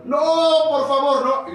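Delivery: a hint of the doomed men begging; mock pleading cry. Men thrown to the lions beg for mercy, mild pleading cry. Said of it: "ellos iban gritando".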